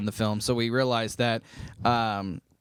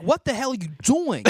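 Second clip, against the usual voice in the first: high mock-British outburst; wavering British accent; 10 semitones higher than usual. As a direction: overdo a bad British accent. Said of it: "sometimes it would sound British".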